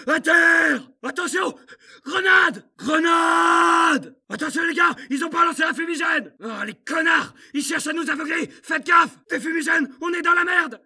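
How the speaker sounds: shouting take cover; urgent warning shouts. Acted. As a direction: yell the warning to the squad. Alerte grenade et fumigènes. (cri d'alerte)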